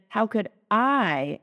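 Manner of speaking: slow phrase with the weight landing on I; stress on I. Shown as a demonstration. Preacher repeats an earlier question, stress on I. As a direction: lean on the word I, slowed down. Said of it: "emphasis on the I".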